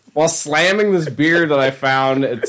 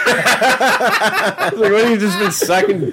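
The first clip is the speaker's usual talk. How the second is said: put-on grouchy old coworker; 7 semitones higher, slower than usual. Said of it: "And he's like".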